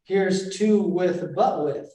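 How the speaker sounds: the weak words spoken alone, slowly; only the unstressed words, slowly. Shown as a demonstration. Teacher shows the unstressed words only, slowly. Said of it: "As opposed to".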